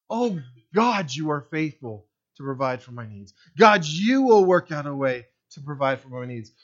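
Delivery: trusting prayer. Retold or imitated. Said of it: "Instead of".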